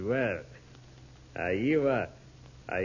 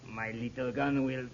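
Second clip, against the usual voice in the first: louder cold threat; menacing threat; 2 semitones higher, 4 dB louder than usual. Acted. Intruder warning the family not to call out, menacing. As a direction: threaten them with the gun.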